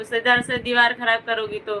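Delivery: usual speaking voice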